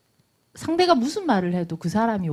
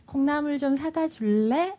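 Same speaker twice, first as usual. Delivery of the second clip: higher, slow, asking sweetly with a rise; gentle request; 7 semitones higher, slower than usual. Shown as a demonstration. Mom asking her child for bean sprouts, gently asking. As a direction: ask nicely, leave room for a no. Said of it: "이러면 부탁이고요".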